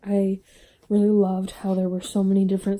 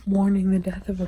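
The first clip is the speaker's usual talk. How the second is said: tearful whisper. Real, not acted. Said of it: "I'm emotional".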